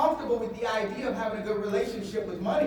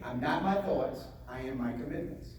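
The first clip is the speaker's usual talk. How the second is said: slow and softer, each word placed; slow soft affirmation; 6 semitones lower, 7 dB quieter than usual. Shown as a demonstration. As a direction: say it slowly like a calm inner vow. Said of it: "Say it again, in your head".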